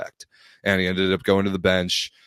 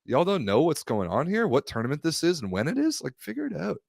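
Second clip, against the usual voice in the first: mocking fans; 9 semitones higher than usual. Mocking clueless fans' comments.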